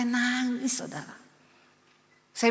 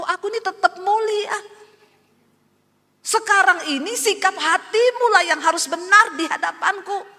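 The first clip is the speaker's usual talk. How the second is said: high, loud, commanding divine voice; voice of God; 9 semitones higher, 5 dB louder than usual. Retold or imitated. God corrects the praying woman, high and commanding. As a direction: speak as God rebuking her. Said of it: "Tuhan bilang".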